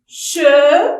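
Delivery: CHEMINÉE broken into che, mi, née, with long pauses; split into syllables. Shown as a demonstration. Teacher counting syllables for pupils, cheminée split up. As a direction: say cheminée syllable by syllable, loud on the first. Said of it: "Nous avons combien de syllabes ici".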